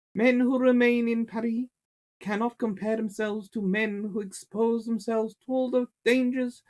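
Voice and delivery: put-on high-pitched, nasal French accent; nasally French Napoleon. Reading Napoleon's letter to the class in a nasally French voice. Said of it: "I just hear this nasally French voice".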